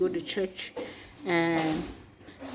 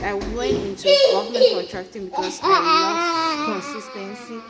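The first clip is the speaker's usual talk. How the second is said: laughing; 8 semitones higher, 5 dB louder than usual. Real, not acted. Laughing at her own story.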